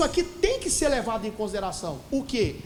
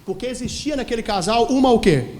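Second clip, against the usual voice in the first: loud prompting question; 7 dB louder than usual. Real, not acted. Preacher asking the congregation what the couple had, loud prompting. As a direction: build to a loud, drawn question.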